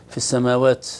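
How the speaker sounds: final t of السماوات blown into an s; excessive hams. Shown as a demonstration. Teacher repeats the error for students, ta sounding like seen. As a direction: finish السماوات with a "ts" release. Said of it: "كأنه همس السين أو قريب من همس السين".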